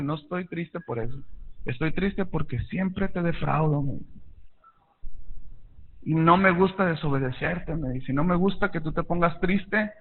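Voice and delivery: put-on soft, hushed retelling of a sad child; softly voicing sad son. Preacher quoting his sad son to his father, soft and hushed. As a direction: speak low, a touch of the boy's sorrow.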